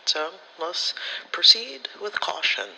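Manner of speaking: a sudden conspiratorial whisper; whispered caution to herself. Retold or imitated. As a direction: hush it like a secret plan. Self-quote, cautious decision.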